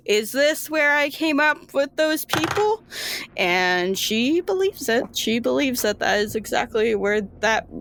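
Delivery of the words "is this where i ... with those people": put-on high, puzzled girl's question; wondering girl. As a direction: wonder aloud, half to herself.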